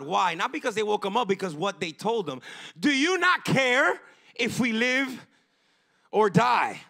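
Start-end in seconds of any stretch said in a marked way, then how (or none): 2.8-6.8 mock panicked plea. Disciples questioning God.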